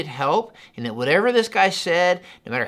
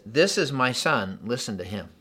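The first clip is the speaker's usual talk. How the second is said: God's voice; 3 semitones lower than usual. Acted. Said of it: "Like the voice, he says".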